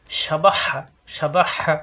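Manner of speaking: সাবাহা with an sh start and the হা pressed from the throat. Shown as a demonstration. Teacher drilling learners, সাবাহা with throat-pressed হা. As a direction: push the final হা of সাবাহা out of a tight throat. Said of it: "হা কণ্ঠ নিতে চাপ দিয়ে".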